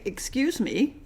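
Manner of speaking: a cool, pointed "Excuse me". Retold or imitated. Canadian warning someone who crossed the line, pointed. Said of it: "in this tone of voice".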